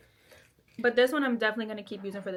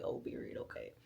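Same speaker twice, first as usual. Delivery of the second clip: mock resigned teen; 10 dB quieter than usual. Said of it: "And I was like".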